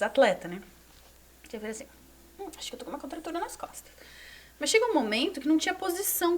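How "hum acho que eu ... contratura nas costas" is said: whispered. Retold or imitated. Muttered retelling of back pain.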